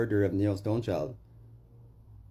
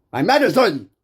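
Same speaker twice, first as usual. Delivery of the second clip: much higher and louder wail; anguished cry; 12 semitones higher, 14 dB louder than usual. Retold or imitated. A man reliving the loss of his weed money, wailing. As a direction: cry out in despair.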